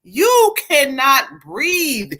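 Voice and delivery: slow, weighty delivery of the message; drawn out, every word spaced; spirit's slow warning. Retold or imitated. Relaying the spirit's message to the viewer, slow and weighty. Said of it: "She said".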